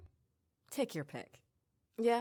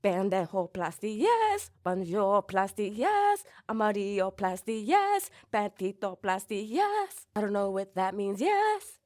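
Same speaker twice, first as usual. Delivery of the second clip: mock surgeon; 4 semitones higher, 7 dB louder, slower than usual. Mock surgery chant with squeaky yeses.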